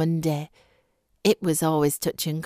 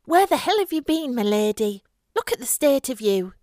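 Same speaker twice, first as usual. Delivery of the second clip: furious mother's shriek, higher and louder; 7 semitones higher, 3 dB louder than usual. A narrator's reading. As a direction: scream it at the daughter who came home late. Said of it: "her mother shrieked".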